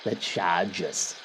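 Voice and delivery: put-on slow, thick Boston accent. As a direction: drag out Chargers in Boston accent. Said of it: "with a terrible Boston accent".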